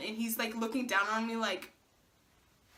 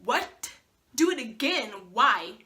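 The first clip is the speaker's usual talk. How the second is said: dismayed; 5 dB louder, slower than usual. Retold or imitated. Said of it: "I'm like".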